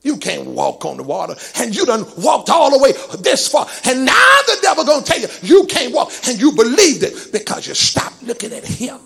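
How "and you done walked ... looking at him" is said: emphatic sermon delivery; impassioned preaching. Real, not acted. Preacher warns the congregation about the devil's lies, impassioned preaching. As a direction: preach with a swelling push, then ease off.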